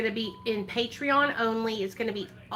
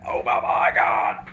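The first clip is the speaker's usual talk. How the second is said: disgusted shout; 6 semitones higher than usual. Real, not acted. Disgusted by the stench.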